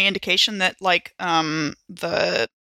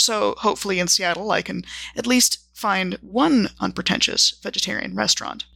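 measured journal narration with deliberate pauses between entries; journal reading. Acted. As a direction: read your travel diary aloud, item by item, with dry understatement. Reads out her character's journal.

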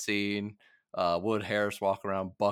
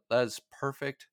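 put-on girlfriend's quote, laughing; 5 semitones higher, 3 dB louder than usual. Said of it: "She said".

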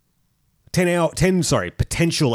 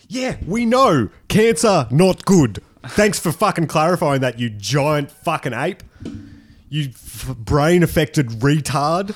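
sarcastic; 2 semitones higher than usual. Acted. Sarcastic mock rant at S1.

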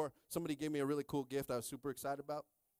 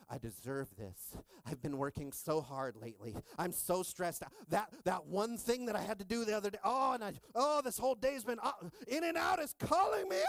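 mock self-justifying; 6 semitones higher than usual. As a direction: talk yourself into it, rising to a yell.

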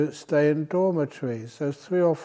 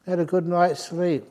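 higher, louder mock protest at his own body; mock arguing; 4 semitones higher, 3 dB louder than usual. Monk arguing with his tired body, mock protest. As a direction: scold the body in a half-playful argument. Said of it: "I argue with my body".

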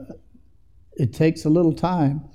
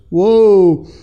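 surprised Eli; 5 semitones higher, 8 dB louder than usual. Retold or imitated. Eli realises what's happening.

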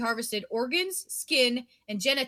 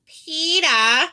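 loud, high drawn-out peta; loud teasing echo of peta; mock call; 5 semitones higher, 10 dB louder than usual. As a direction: belt the name back jokingly.

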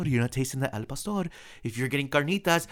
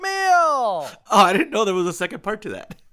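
loud, high-pitched surprise; delighted surprise; 9 semitones higher, 8 dB louder than usual. Real, not acted. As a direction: exclaim at an unexpected discovery. Surprised by rhyme's second part.

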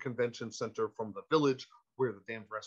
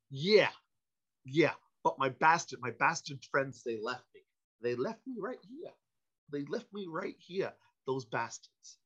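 Christopher Walken. Retold or imitated. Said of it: "Holy shit, that's Christopher Walken".

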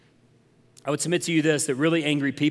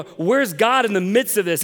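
indignant question, pitched up; reliving frustration, higher and pressing; retold anger; 5 semitones higher, 4 dB louder than usual. Preacher reliving anger at God over children's graves, indignant. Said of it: "then I'm getting angry at".

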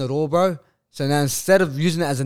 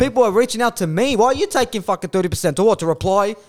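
retold outrage; 8 semitones higher, 4 dB louder than usual. Retold angry rant at managers.

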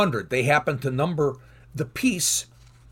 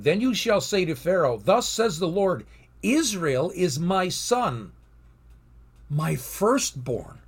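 solemn scripture reading; 3 semitones higher than usual. Acted. Reads God's words to Moses.

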